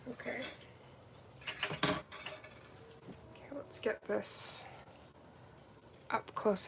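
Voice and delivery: slow hushed whisper. Real, not acted. Moving in for the close-up, whispering slowly. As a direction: hush while filming close.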